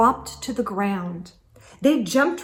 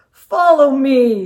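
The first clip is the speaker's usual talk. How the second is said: unvoiced secretive invite; whisper; 4 semitones higher, 9 dB louder than usual. Santa invites them secretly.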